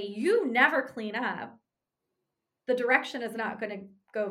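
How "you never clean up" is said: blunt criticism. Pretend. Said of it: "if I come in and say".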